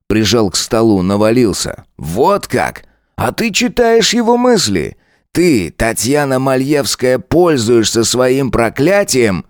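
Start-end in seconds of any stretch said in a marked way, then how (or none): 2.0-9.4 lightly voiced cop, slow, pressing the charge; accusing lieutenant. Lieutenant accusing Tanya of using her curse, slow taunt. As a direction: pin her down with each word.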